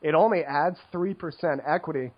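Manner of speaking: lightly voiced bored ironic hipster; a hint of a know-it-all poker hipster. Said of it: "I love my poker hipster voice".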